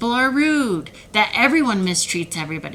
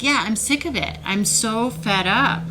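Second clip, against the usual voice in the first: heated; 3 semitones higher than usual. Real, not acted. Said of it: "I'm getting a little heated".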